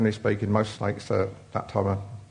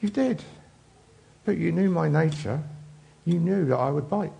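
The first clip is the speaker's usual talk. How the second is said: a slightly higher, matter-of-fact snake voice; the snake calmly stating its nature; lightly voiced snake; 6 semitones higher than usual. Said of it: "And the snake says".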